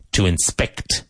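"inspect" stressed on SPECT; to in-SPECT, careful model of "inspect"; stress on second syllable. Shown as a demonstration. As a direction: lean on the last syllable of "inspect". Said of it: "Emphasis on the second syllable".

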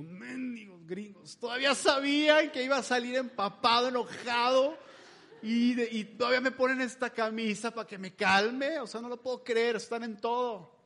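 half-amused grumble at those gringos; mock exasperation. Soaked dad at the shop counter, grumbling in mild mock outrage. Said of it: "Y yo".

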